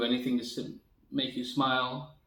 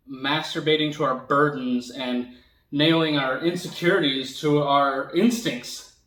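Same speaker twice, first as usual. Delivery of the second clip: louder, punching out the key words; impassioned rant; 2 semitones higher, 6 dB louder than usual. Acted. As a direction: build the rant to a loud, drawn-out finish. Rant peaks in performed monologue.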